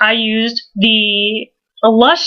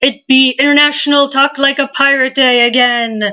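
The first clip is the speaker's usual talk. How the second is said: pirate voice. Pretend. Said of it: "the last that you hear of me talking like a pirate".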